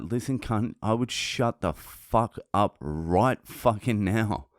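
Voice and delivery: slow, emphatic warning, not shouted; retold threat. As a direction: reenact warning him off, drawing out the words. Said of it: "I had to threaten him".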